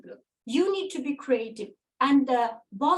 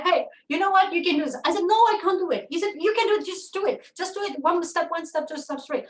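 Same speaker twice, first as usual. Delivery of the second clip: lightly voiced upbeat mentor, pitched higher; retold mentor's encouragement; 5 semitones higher, faster than usual. Mentor urging her to start her first business, lightly voiced upbeat coaxing. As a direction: coax her on step by step, pitched up.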